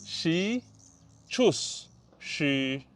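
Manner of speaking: she set against choose, lips pushed out; pronunciation contrast. Shown as a demonstration. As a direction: shape the mouth from choose into she. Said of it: "Pronounce the choose method".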